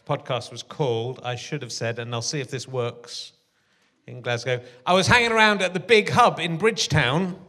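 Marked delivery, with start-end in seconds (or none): 4.8-7.4 quoting TV show. Retold or imitated. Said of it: "As seen in the documentary Molly and Mac".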